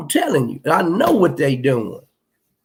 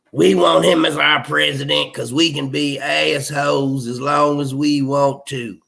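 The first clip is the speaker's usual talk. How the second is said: a hint of a Southern accent, sneering; mock Southern accent, only lightly done. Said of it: "I gotta stop putting that Southern accent on it".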